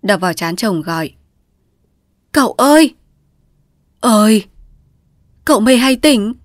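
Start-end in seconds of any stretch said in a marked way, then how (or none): 2.3-6.3 high, loud frightened call; frightened call to wake him. A narrator's reading. Wife slapping her husband's forehead to rouse him, frightened. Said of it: "Chị San sợ hãi".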